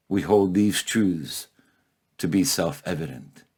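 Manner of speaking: measured poem reading with weighty pauses; poetry recital. Acted. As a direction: recite it solemnly, letting phrase endings fall. Recites his poem to the audience.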